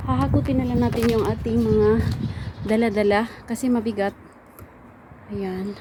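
panting after hauling heavy bags; breathless from carrying loads; out of breath. Real, not acted. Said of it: "Hiningal ako ba?".

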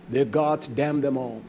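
low, soft quoted damnation; hushed curse. Acted. Preacher quoting God's curse to the congregation, low and hushed. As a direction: drop the voice right down for the curse.

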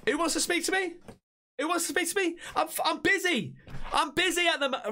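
high, put-out devil being interrupted; busy devil. Acted. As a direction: play the devil too busy to talk. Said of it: "He's like".

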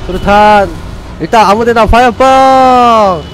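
loud excited weapon callouts; shouted callouts. Real, not acted. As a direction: yell each weapon as you throw.

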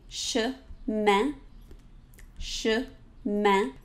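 chemin with nasal E vowel; French chemin. Shown as a demonstration. Teacher modeling chemin, nasal E. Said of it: "So say this with me".

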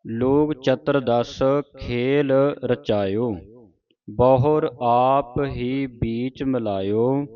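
slow, measured teaching recitation; scripture recitation. Shown as a demonstration. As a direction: draw each word out for students to follow. Reads scripture for students to follow.

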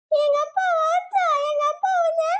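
put-on high, slow, sulky child threat; bratty kid threat. Child warns teacher her dad will hit her. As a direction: threaten like a cheeky little girl.

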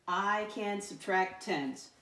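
put-on slow, evenly spaced reading for children; slow read-aloud. Shown as a demonstration. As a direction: read it word by word for the class. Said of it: "let me read it".

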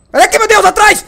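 very high, loud startled shriek; frightened scream. Real, not acted. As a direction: scream as it jumps you. Zombie jumps from behind. (grito de susto, muito agudo e alto)

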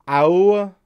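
"Iowa" squeezed into a short "AH-uh"; viewers' Iowa. Retold or imitated. Mimicking how his viewers say the state, clipped Iowa. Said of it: "I think you guys say it Iowa".

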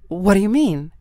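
high, puzzled question; confused. A narrator's reading. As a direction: ask it baffled. Hera confused.

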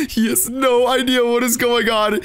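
ordinary talk, nothing marked

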